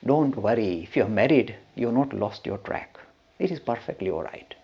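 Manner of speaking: softening, settled reassurance; reassuring. Retold or imitated. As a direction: comfort the disciple as his master would. Master comforts the married disciple.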